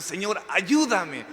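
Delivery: slow, high-pitched plea for help, fading on each ayúdame; mock pleading woman crying out to Jesus. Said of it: "Y sigue gritando".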